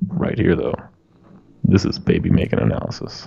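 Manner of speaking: sultry voice. Moving close to the microphone to show off: sultry tone. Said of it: "this microphone gets the sultry tones".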